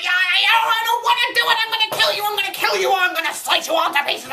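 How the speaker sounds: raging threats. Acted. Critic losing control again, raging. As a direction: rant like a maniac. Renewed comic rage.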